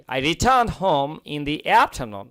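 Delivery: slow, careful model sentence; teacher dictating slowly; slow reading. Shown as a demonstration. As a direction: read it out word by word. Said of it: "reads model sentence slowly".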